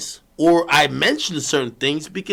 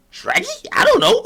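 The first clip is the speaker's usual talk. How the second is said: much higher, squeaky mock voice of Adam. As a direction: play him dodging, clueless and high. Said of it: "he's like".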